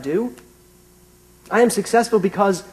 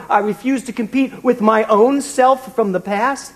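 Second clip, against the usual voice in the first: proud declaration; 4 semitones higher than usual. Retold or imitated. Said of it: "I thought".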